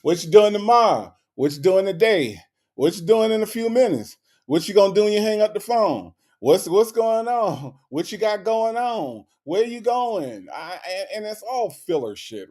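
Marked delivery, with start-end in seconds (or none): 0.0-10.5 mock nosy questioning. Mimicking a man filling time with questions, mock nosy. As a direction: imitate someone pestering with filler questions.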